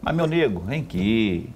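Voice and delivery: "meu nego" mais alto, "vem aqui" descendo; demonstração de entonação. Shown as a demonstration. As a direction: chamado íntimo com melodia que sobe e cai. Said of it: "Depende da entonação". ("meu nego" cantadinho, depois "vem aqui" mais grave)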